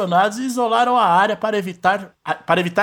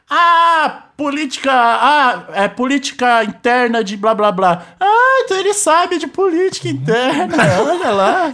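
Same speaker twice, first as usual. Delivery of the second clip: condescending pundit; 5 semitones higher than usual. Acted. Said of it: "essa técnica".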